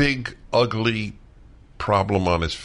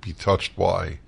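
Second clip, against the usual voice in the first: choked up; 5 dB quieter than usual. Real, not acted. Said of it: "I'm choking up".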